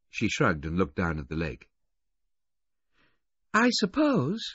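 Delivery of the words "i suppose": put-on high-pitched disgruntled girl. A narrator's reading. Adolescent girl to the train waiter on a bench, disgruntled. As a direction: grumble it in a high girl's voice. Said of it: "she said in a disgruntled voice".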